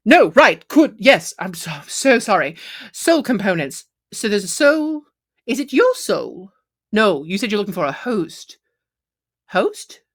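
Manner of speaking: a hint of a camp shopkeeper, darting and flustered; flustered satyr. Satyr overwhelmed by the robot's quest, lightly camp. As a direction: fuss over the stranger like a camp satyr.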